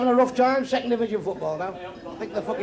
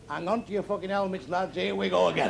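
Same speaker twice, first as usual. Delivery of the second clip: put-on little child's voice; 5 dB quieter than usual. Child warns the lads in bed, mild little voice. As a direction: kid at the end of the bed warning the others, lightly voiced little voice. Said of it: "a little voice at the end of the bed said".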